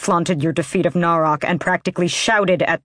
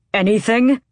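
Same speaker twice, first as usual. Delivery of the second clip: shocked; 6 semitones higher, 5 dB louder than usual. A narrator's reading. Shocked outburst.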